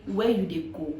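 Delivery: Nigerian Pidgin phrasing, lightly voiced. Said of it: "Nigerians will say".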